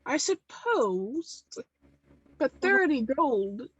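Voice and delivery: slow, drawn-out reluctance; grudging doubt. Acted.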